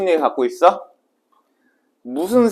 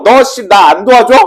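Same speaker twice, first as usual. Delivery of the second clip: louder, rough-talking demand for help; mock threat; 2 semitones higher, 6 dB louder than usual. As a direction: lean on them with an acted threat. Acts out threat at knifepoint.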